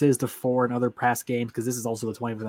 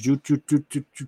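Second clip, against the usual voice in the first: imitated sound effect; 3 semitones higher than usual. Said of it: "sound effect".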